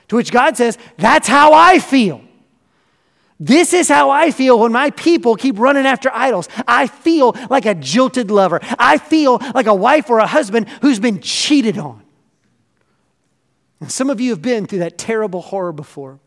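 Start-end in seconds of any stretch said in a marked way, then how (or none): 1.0-12.0 God as jilted lover. Acted.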